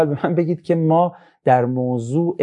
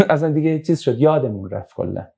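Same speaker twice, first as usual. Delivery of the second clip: laughing. Real, not acted.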